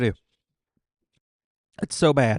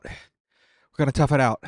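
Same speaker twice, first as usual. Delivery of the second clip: slow and deliberate, each word set down; slow determined; slower than usual. Real, not acted. Refusing a drink to stay tough, slow and firm. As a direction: drag it out like a vow. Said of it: "We are men".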